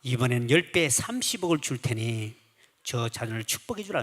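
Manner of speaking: lightly voiced solemn God. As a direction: speak slowly as God offering a reward. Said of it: "들리는 음성이".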